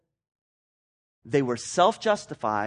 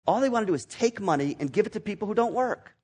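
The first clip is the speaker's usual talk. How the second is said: louder, higher, indignant tirade; angry rant; 6 semitones higher, 7 dB louder than usual. Retold or imitated. Self-justifying conservative ranting about liberals, angry. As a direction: rail against them, heated and scornful. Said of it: "you can say".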